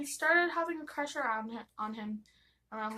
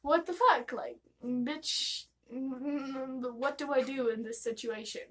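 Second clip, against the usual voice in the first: shocked disbelief; 2 semitones higher, slower than usual. Retold or imitated. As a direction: blurt it out stunned. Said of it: "I was kind of like".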